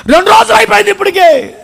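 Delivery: high, wailed protest of grief; anguished lament. Acted. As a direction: cry out in acted despair. Mary laments the days passed.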